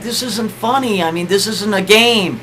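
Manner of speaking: mildly angry, emotional imitation; kinda angry, emotional. Sick wife protests to husband, mock upset. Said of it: "She's getting kinda angry, but she's emotional at the same time".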